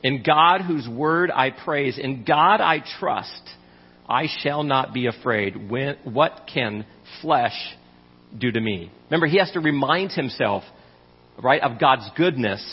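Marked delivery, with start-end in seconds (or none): 0.0-8.9 slow, trusting scripture reading. Acted. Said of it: "he says".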